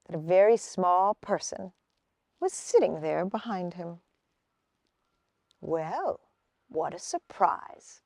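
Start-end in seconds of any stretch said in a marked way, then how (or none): 5.6-8.0 soft, slowed, smiling surprise; quiet smile. Acted. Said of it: "with a quiet smile".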